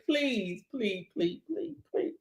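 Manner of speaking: soft, pleading please repeated; mock-pleading with the boss for the paycheck; begging. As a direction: beg quietly, almost whining. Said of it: "Are you gonna go and beg them".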